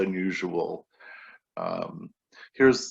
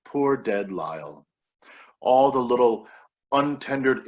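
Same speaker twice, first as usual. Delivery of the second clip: poem reading. Acted. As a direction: recite each line with weight. Reads poem Dead Lyle.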